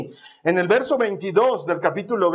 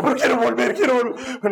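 acted excitement; 4 semitones higher than usual. Acting out wish to ride again.

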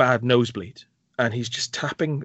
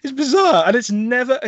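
laughing disbelief; 12 semitones higher, 6 dB louder than usual. Real, not acted.

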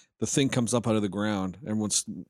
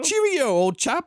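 much higher, slow, louder English "cheerio"; mock posh English; 6 dB louder, slower than usual. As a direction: ham it up as an old-school toff. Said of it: "give him an, uh, uh, English accent".

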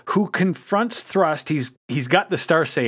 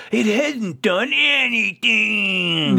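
slow, high, deflated voice; lightly voiced disappointed hero; mock dismay; 6 semitones higher, much slower than usual. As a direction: sound baffled it did nothing. Hotshot voiced firing at Tidal Wave.

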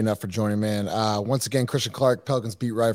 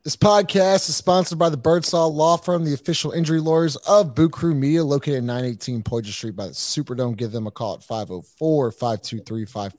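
sponsor ad read; 4 dB louder than usual. Acted. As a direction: sell the sponsor like a host read. Reads sponsor ad.

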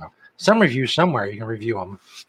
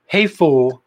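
mock yell; 7 semitones higher, slower than usual. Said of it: "started yelling".

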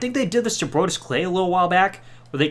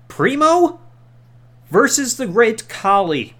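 louder ring-announcer build, stretching it out slow; announcer call; 4 semitones higher, 5 dB louder, slower than usual. Acted. Host announcing the main event, mock ring-announcer call. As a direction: announce it like a big fight.

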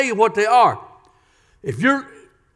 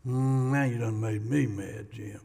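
low, soft grumbling church member; offended listener; 10 semitones lower, 12 dB quieter than usual. Pretend. Imagined churchgoer to pastor Jim, low mock grumble. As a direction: voice a miffed congregant.

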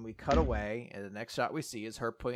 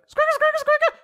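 squeaky marker noise; 10 dB louder than usual. Retold or imitated.

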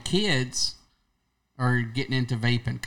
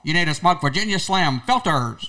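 put-on upbeat, louder old-time doctor pitch; chipper 1950s ad; 3 semitones higher, 5 dB louder than usual. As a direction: sell it like a vintage ad. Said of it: "the doctor be like".

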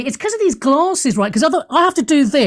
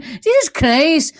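higher, slow Scottish exclamation; Billy Connolly; 4 semitones higher, slower than usual. Acted. Host mimics a comedian, drawn-out Scottish accent. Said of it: "I've gone into Billy Connolly all of a sudden".

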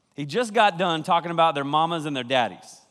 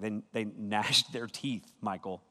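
mock whine; 8 semitones lower, 9 dB quieter than usual. Mocking a whiny listener.

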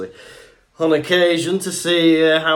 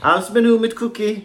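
mock German order; 7 semitones higher, 5 dB louder than usual. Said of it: "playing the German order".

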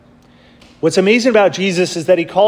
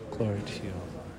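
distant congregation response; 10 semitones lower, 17 dB quieter, faster than usual. Real, not acted.

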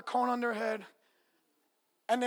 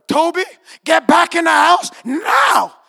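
louder, slow shouted command to a dog; retold yell; 6 semitones higher, 15 dB louder, slower than usual. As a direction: bark the order at the dog. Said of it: "she yelled at her dog".

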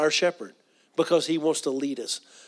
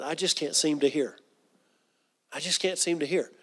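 imitating his mom; 6 dB quieter than usual. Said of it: "she used to say that sometimes".

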